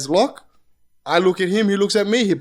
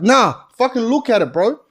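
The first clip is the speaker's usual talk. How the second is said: retold angry demand; 5 semitones higher, 4 dB louder than usual. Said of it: "I'm like".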